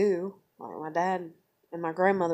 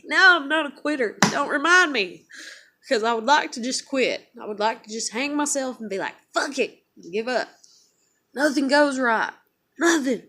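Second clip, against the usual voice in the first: high, loud, real despairing protest; exasperated outburst; 6 semitones higher, 7 dB louder than usual. Real, not acted. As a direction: burst out, fed up with everything. Venting at being told not to quit.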